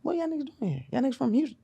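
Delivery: high, shocked disbelief; surprised. Retold or imitated. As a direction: react like you spotted someone unexpected. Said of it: "and you like".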